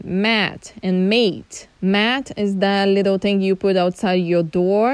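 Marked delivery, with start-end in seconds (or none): 0.0-1.7 mat and mate said slowly; slow contrast of the vowels; slow minimal pair. Shown as a demonstration. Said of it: "The next one".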